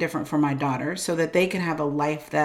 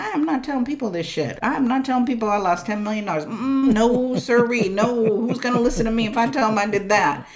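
retold flat refusal; 4 semitones higher than usual. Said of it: "I'm like".

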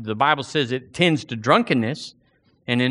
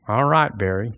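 usual speaking voice

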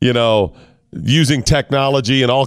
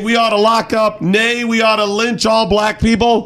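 Trump impression; 8 semitones higher than usual. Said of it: "Out there saying".

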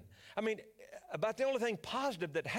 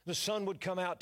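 usual speaking voice

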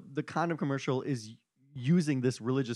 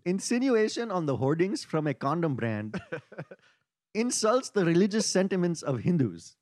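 put-on Indian accent for a formal quote. Host quotes an offended group leader on request, Indian accent. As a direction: read the statement in a mock Indian accent. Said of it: "you have to do it in the accent".

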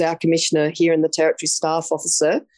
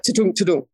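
bump noise imitation. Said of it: "going over the bumps like".

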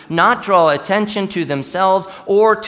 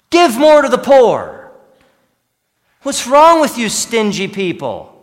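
mock scolding preacher; 3 semitones higher, 5 dB louder than usual. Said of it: "is not so much".

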